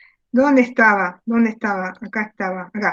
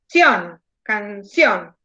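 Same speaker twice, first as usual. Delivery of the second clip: "canción" broken up, weight landing on "ción"; stress on the final syllable; 4 semitones lower, much slower than usual. Shown as a demonstration. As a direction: split "canción" and lean on "ción". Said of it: "Esa es la sílaba tónica".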